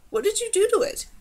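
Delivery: accusing. Acted. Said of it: "squeaked a reproach at Kadar's tone".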